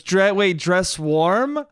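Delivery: lightly mocked confusion; questioning mom. Mom picks at dad's slip of wording, questioning. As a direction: query it haltingly, like a needling wife. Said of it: "and she goes".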